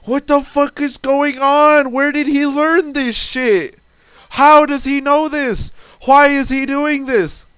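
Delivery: retold disbelief. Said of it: "I'm like".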